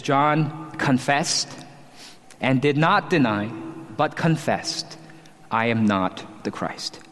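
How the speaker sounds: slow, weighty stress on "confessed" and "not"; emphatic. Retold or imitated. Preacher reads John's denial of being the Christ, emphatic. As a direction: space out "confessed", "did not deny", "confessed" with pauses. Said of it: "Verse twenty is emphatic".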